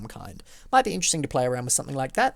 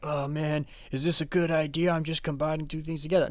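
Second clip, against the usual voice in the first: higher, put-on worried voice; doubting inventor; 3 semitones higher than usual. Cronut inventor questioning his own idea, mock worry. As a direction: fret aloud as an unsure inventor. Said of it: "the guy who probably invented cronuts was like".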